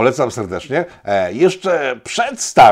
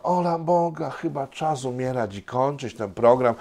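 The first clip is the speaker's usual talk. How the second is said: mock lament; 2 semitones higher, 5 dB quieter than usual.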